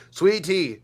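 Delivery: ordinary delivery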